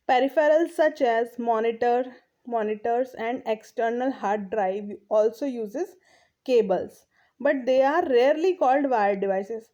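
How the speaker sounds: reading the English text aloud, very slowly; slow textbook reading. Acted. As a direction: read each phrase out deliberately for the class. Reads textbook line slowly. (धीमी गति से पाठ पढ़ना)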